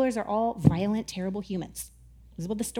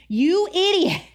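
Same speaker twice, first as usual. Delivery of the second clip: higher, louder, slow and incredulous; mock angry sailors; 4 semitones higher, 3 dB louder, slower than usual. Angry sailors scolding Jonah, mock outrage. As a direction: scold Jonah like an exasperated crew. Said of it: "They were like".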